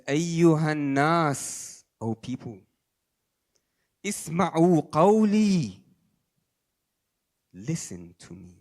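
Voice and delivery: drawn-out booming proclamation; proclaiming call. Acted. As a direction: call out to the whole crowd. Imam's call on Ashura.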